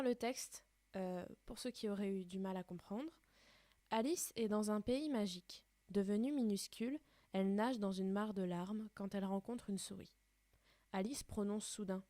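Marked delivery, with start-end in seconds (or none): 3.9-12.0 put-on reading a children's story aloud. A narrator's reading. Teacher reading the story to her pupils, steady and clear. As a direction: read the tale to the class, clearly and gently.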